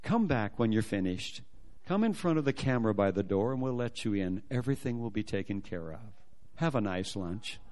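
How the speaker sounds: low, soft, courteous reassurance; smiling official. Retold or imitated. Embassy lady sending him to lunch, gently reassuring with a smile. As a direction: send him off kindly, pausing between phrases. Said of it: "Big smile comes on her face".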